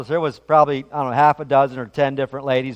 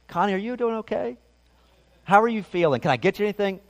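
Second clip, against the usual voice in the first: soft, higher-pitched caring question; gentle concern; 3 semitones higher, 6 dB quieter, faster than usual. Acted. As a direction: ask tenderly, checking on your wife. Imagined caring reaction to wife in labor.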